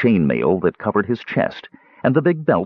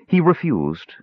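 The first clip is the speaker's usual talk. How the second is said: mildly gentle, in a higher voice; a touch of tenderness, pitched up; 8 semitones higher, slower than usual. A narrator's reading. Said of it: "Tika continued gently".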